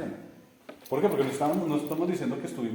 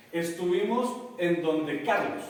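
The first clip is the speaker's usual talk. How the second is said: slow example; 3 semitones higher, slower than usual. Shown as a demonstration. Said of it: "pillen por qué".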